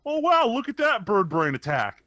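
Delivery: high, slow, goofy dub voice; corny kids' show pun delivery; cheesy cartoon voice. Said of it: "someone's like".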